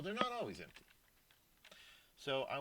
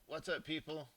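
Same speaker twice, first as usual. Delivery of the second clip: pitched up, a playful mock yell; 6 semitones higher than usual. Teacher reading the program's output aloud, mock yell. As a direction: read the printed line like a singer's yelling it. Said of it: "a singer is yelling".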